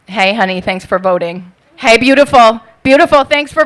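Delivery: loud mock catcall; man calling after a voter. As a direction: call it out after her as she leaves. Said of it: "calling after me".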